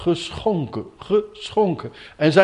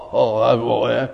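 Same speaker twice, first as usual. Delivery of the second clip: ordinary talk, nothing marked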